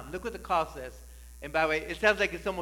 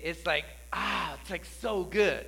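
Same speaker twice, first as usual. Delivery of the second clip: savouring; slower than usual. Shown as a demonstration. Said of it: "savouring pizza".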